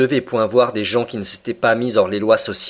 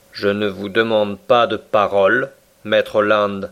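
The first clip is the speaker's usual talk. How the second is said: coldly. Acted. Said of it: "répondit froidement le commandant".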